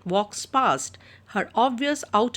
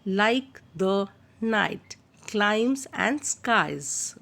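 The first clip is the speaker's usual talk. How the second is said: teacher drawing out the long vowels for the class; slow, drawn out; much slower than usual. Shown as a demonstration. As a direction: stretch the vowels in "climes" and "skies" slowly. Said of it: "is called as assonance".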